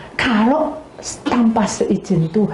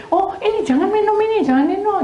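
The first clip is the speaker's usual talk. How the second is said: pitched way up, urgent; high alarmed warning; 13 semitones higher than usual. Retold or imitated. Wife warning her husband off the drink, high and alarmed. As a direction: warn him off the drink, high.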